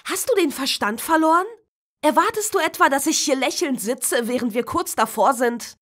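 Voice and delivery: loud, high, fast tirade; furious shouting. Acted. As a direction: blow up at your sister. Tom explodes at his sister.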